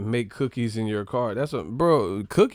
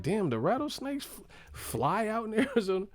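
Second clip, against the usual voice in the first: mock shock; 11 semitones higher, 6 dB quieter than usual. Shocked imagined quote.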